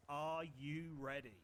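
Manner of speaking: loud, slow crowd-warmup call; hype call. Shown as a demonstration. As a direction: pump up the crowd, slowly. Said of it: "you make me go all nine-year-old birthday party entertainer".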